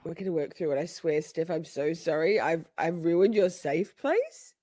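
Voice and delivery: soft, low contrite murmur; hushed mock apology. To friend Steph after the betrayal, softly apologetic. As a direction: apologise gently, slowing at the end.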